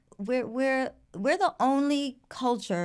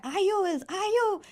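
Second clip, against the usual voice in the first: slow quote; 10 semitones higher, much slower than usual. Retold or imitated. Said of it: "someone was like".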